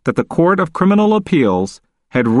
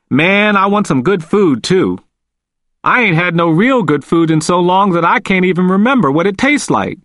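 Walter's voice; 6 semitones higher than usual. A narrator's reading.

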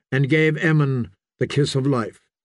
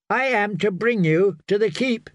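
put-on higher-pitched young messenger; insistent youth; 7 semitones higher than usual. A narrator's reading. Young Gorman on horseback to the priest, insistent and high. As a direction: insist in a lifted, boyish voice. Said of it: "insisted young Gorman".

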